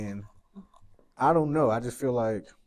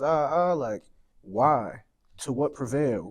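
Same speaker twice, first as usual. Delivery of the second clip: passionate rant; 2 semitones higher, 5 dB louder, much slower than usual. Real, not acted. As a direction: let the frustration pour out. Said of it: "and this is a little rant".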